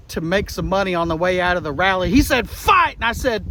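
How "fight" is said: high, punched-out mock battle cry; mock rallying cry. Trump urging the crowd, mock rallying cry. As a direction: call it out as a rallying shout.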